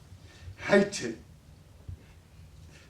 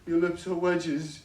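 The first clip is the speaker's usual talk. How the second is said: put-on insistent drunken taunt; 2 semitones higher, 6 dB louder than usual. Father repeats insult, louder.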